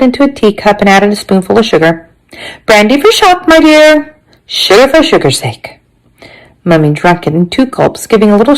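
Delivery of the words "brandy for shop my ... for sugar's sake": high-pitched grandmother voice; grandmother's offer. Acted. Grandmother offering brandy in story.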